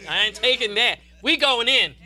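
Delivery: Bill Winston's vow of defiance; defiant preacher quote. Retold or imitated. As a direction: refuse to be held back. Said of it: "He said".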